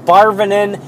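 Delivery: "Barvinin", with "bar" up front and a mushed ending; mangled Bavarian. Shown as a demonstration. Worker mimicking customers who cannot say Bavarian, garbled mispronunciation. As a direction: botch it as "Barvinin". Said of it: "It's not, like".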